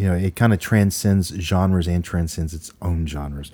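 talking around an ice cube; words slurred by ice in mouth. Real, not acted. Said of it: "I got ice in my mouth now".

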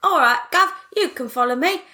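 imitating her friend's sudden Cockney urchin voice. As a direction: greet the gent like a street kid. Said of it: "little street governor is like".

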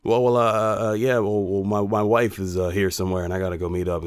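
halting excuse full of uhs; imitating a flustered, stammered retreat; stammering. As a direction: stumble and repeat words, trailing off softly. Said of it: "he stammered something like".

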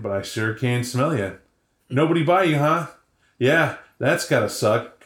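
a hungry stray toying with its prey; menacing dog. Retold or imitated. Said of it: "the dog's like".

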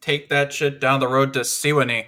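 put-on a southern fan's Mississippi accent, gruff and loud; mock Mississippi accent. Cohost riffs as a Mississippi fan, in a Mississippi accent. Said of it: "I was doing a Mississippi accent".

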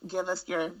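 slow, mock-solemn recitation; sarcastic. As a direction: recite it with dry irony. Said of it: "I'm just being sarcastic".

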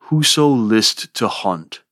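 slow, measured verse line with a falling close; downbeat, world-weary line reading; weary falling beat. Shown as a demonstration. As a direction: lean on WHOSO and LIST, slowly, letting HUNT fall. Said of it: "implies a somberness, a weariness, a glumness".

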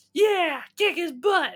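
loud, high heckler holler; hammed-up high-pitched crowd yell; imitated female heckler. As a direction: shout it like a rowdy fan from the back row. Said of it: "and she would say shit".

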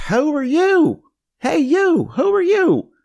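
high, loud, drawn-out East Tennessee holler; East Tennessee accent. Retold or imitated. Principal calling out a new student, drawn-out East Tennessee accent. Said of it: "in this very drawn out East Tennessee accent".

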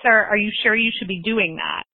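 mock panic. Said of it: "my friend Stephanie panicked".

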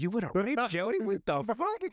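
high, laughing disbelief; mock shock. Acted shock at Melvin's threat.

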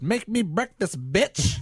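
lightly voiced bossy little boy; mock bossy kid. Co-host imagines the son ordering sister around, mock demanding. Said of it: "He said".

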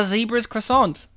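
"Zebra's" as ZEE-bruhz, "Croissant" like the pastry; mispronounced title. Real, not acted. Co-host mishears the title, "Zebra's Croissant" anglicised with a long ee. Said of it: "I didn't say Zebra's Croissant".

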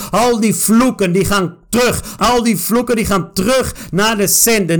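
declaring each line with force; preaching-style prayer with strong stresses; fervent prayer. Real, not acted. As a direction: pray it out, commanding in Jesus' name. Prayer over reading.

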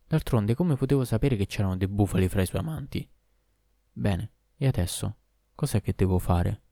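frightened reply. Acted. Terrified hunchback answers the demon.

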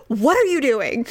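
mock loud hiss of alarm; really loud. Husband scolding her across the table, loud. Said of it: "Really loud".

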